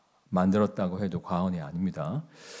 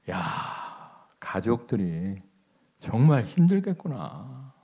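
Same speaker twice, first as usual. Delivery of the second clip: slow, drawn-out sighing wonder; sympathetic musing; much slower than usual. Retold or imitated. Fellow patient pities the old man's family, slow musing. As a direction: think aloud, dwelling on their hardship. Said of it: "그런 생각이 들더라고요".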